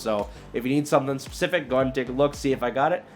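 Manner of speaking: youtuber outro pitch; upbeat outro. Acted. Channel outro sign-off to viewers.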